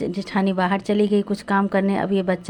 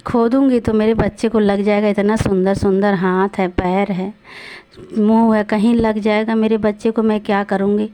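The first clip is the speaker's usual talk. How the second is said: pleading lament. Acted. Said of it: "रोने लगी".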